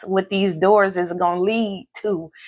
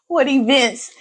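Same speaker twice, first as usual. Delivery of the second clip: giggly whisper; 6 semitones higher than usual. Real, not acted. Laughing, whispering to herself.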